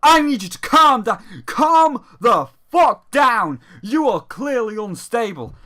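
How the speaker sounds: loud, hammed-up alarmed shouting; hammed-up yelled calm down; mock overreaction. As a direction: yell it like a panicked friend. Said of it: "the other guy's like".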